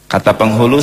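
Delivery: ordinary delivery, nothing marked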